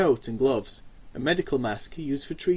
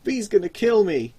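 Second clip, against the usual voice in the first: panicky; 6 semitones higher, 5 dB louder than usual. A narrator's reading. Nervous driver panics aloud.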